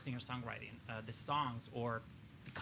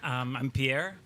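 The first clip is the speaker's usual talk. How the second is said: shaky voice; 10 dB louder, much slower than usual. Real, not acted. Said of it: "if my voice sounds shaky".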